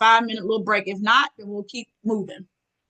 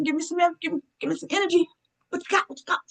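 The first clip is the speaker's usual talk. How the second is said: hype-up call; 7 semitones higher, faster than usual. Real, not acted. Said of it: "hyping up the audience".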